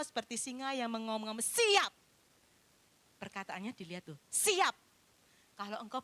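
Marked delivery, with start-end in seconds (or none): 1.4-1.9 louder, higher bark of ready; menacing lion's ready; ready to pounce. Acted. 4.3-4.8 louder, higher bark of ready; menacing lion's ready; ready to pounce. Acted.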